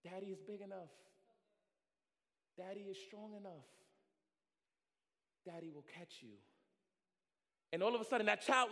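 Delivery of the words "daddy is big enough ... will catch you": soft, calm reassurance; reassuring father. Acted. Father below the branch reassuring child, soft and calm. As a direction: quietly promise to catch. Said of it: "the father ... says".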